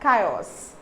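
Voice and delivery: Chaos said with a hard K, kai-os; K sound. Shown as a demonstration. Teacher models Chaos with a K sound for learners, careful pronunciation. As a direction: start Chaos with a K. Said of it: "say that the word exactly with how you pronounce K".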